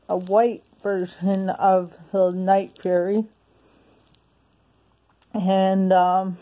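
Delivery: breathless, gasping between words; out of breath. Real, not acted. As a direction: talk while winded. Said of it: "I don't know why I'm so out of breath".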